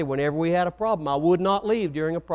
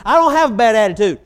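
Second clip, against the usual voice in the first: much louder and higher, punching "don't"; "I don't have a bad attitude" with DON'T hit hard, stubborn and raised; louder repeated denial; 4 semitones higher, 10 dB louder than usual. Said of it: "and we'll just do".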